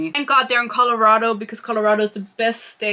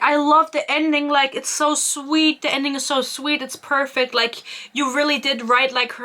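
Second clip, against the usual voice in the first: higher-pitched imitation of a gushing mom; gushing praise; 5 semitones higher than usual. Mom praising his book on the phone, mock gushing. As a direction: gush sweetly in a retold voice.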